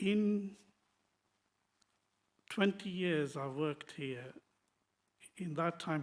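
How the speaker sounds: uneasy, on-edge, nervous, anxious delivery. Describing twenty years of work and a clean driving record: nervous. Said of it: "sorry, I'm nervous".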